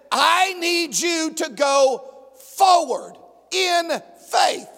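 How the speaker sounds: booming, deliberate call to go forward; commanding God. Acted. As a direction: push him forward with authority.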